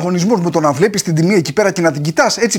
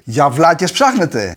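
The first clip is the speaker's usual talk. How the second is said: mock defiant shopper; 3 semitones lower, slower than usual. Sarcastic mock defiance at shops.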